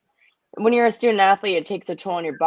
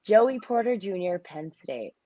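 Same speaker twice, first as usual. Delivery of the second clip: mock draft announcement. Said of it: "we wanna see you say it".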